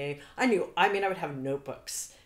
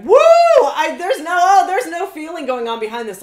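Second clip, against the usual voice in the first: hammed-up emoting actor; 11 semitones higher, 16 dB louder than usual. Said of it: "those actors that sit".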